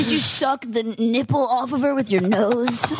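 creepy guy voice. Acted. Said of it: "that's my creepy guy voice".

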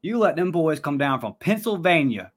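a hint of a country boy voice; old country boy Southerner. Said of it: "I'm gonna sound like an old country boy Southerner real quick".

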